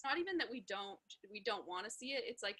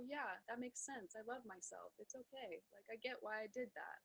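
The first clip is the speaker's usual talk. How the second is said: self-compassion; 5 dB quieter than usual. Retold or imitated. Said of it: "Get there with it and then go".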